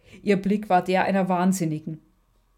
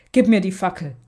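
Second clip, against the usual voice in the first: firm demand; 5 dB louder than usual. Acted. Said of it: "forderte Alexandra bestimmend".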